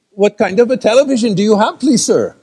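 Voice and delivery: put-on quick, polite Indian accent; polite Indian call-centre accent. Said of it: "with an Indian accent".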